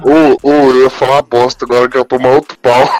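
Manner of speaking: loud, clipping into the mic; too close to mic. Real, not acted. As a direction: mouth right on the mic, distorting. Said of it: "afasta um pouco aí que eu".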